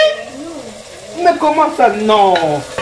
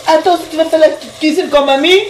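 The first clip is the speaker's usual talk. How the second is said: imitating a stammer; 6 semitones higher than usual. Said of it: "Arrête de bégayer".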